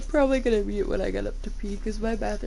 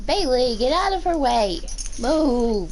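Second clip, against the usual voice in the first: louder, higher barked orders; loud commands to dog; 5 semitones higher, 6 dB louder, slower than usual. Real, not acted. Owner loudly ordering her dog out of the way.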